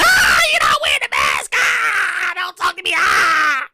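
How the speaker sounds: mock panic. Host reacting to his relief without a mask, mock panic. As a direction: recoil from the maskless coworker. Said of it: "that was my reaction".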